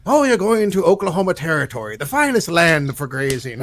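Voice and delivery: hammed-up impression of a boatman's proclamation; guy in the boat. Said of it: "the guy in the boat's like".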